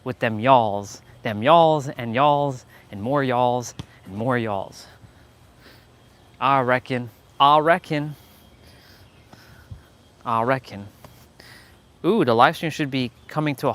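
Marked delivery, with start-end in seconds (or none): 0.0-4.9 put-on light practice Southern accent; Southern American accent. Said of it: "practicing my Southern American accent". 6.4-10.9 Southern I reckon, ah-style I; light Southern accent practice; Southern American accent. Pretend. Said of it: "practicing my Southern American accent".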